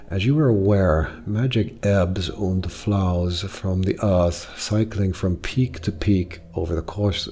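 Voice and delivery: attempted German accent, measured delivery; melodious, deliberate German-accented lecturer; Brackenhaus. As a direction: relish each word in a lightly put-on German accent. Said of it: "Brackenhaus speaks slowly with a deep, melodious German accent".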